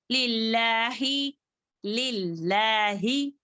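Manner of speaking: लिल्लाहि with a short final i; don't stretch the ends of लिल्लाहि; no dragged ending. Shown as a demonstration. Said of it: "यहाँ पर खींचेंगे नहीं".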